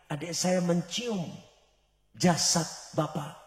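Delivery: softly grieving sister; sad lament. Retold or imitated. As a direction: sigh it out to God in grief.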